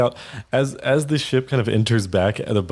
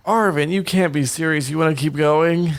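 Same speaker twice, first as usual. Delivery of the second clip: high incredulous protest; can't believe it; incredulous Theo; 7 semitones higher than usual. Acted. Theo protesting to Arvin in disbelief, high voice. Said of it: "Theo's like".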